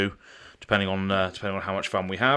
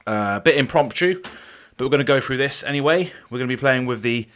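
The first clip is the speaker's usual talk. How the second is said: breathless after rushing upstairs; out of breath; 3 semitones higher than usual. Real, not acted. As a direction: speak while still catching your breath. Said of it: "I'm a little bit out of breath".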